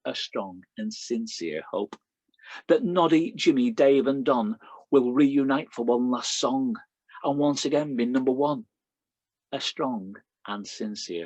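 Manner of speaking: measured poem recital with a repeated refrain; poem reading. Acted. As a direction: read it like a performed poem, letting the refrain land. Reads his poem aloud.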